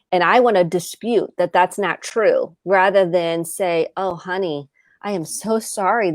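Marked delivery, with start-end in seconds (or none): 4.0-6.1 softly apologetic; tender apology. Acted. Mom apologizing to her daughter for yelling, soft and tender. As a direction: soothe gently, voice lowered a little.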